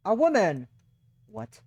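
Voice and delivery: loud startled realisation; surprised exclamation. Real, not acted. Streamer reacting to a woman on the line, surprised. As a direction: blurt it out, caught off guard.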